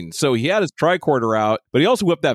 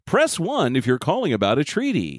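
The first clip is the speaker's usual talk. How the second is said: phone menu voice. Pretend. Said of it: "like, the phone tree".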